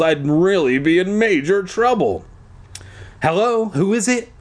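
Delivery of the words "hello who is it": demanding. A narrator's reading. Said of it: "I demanded".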